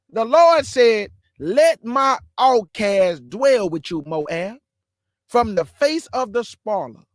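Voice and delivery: slow, deliberate scripture reading, each word spaced; slow it right down so they catch every word; said slowly. Shown as a demonstration. Preacher repeats the verse slowly for listeners. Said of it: "'cause I'ma say it slow".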